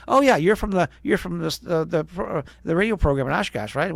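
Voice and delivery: recalling the DJ's cheerful recognition; bright recognition. Retold or imitated. Chuck recognizing the young DJ's tape, mock cheerful. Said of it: "And he says".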